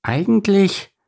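keen duckling piping up; calling out. A narrator's reading. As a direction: call out the discovery. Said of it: "rief Erna".

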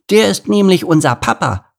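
put-on high, loud little-girl eagerness; high-pitched, zealous kid; eager. A narrator's reading. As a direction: chime in keenly like a proud child. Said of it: "ergänzte Laila eifrig".

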